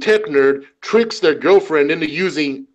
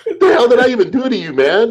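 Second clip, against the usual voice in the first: laughing protest; 6 semitones higher than usual. Retold or imitated. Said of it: "I'm like".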